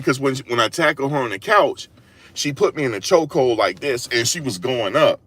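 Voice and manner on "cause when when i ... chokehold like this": ordinary talk, nothing marked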